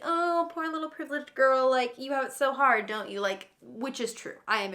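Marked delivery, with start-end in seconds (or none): 0.0-3.2 mocking troll voice. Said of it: "mean people on the internet being like".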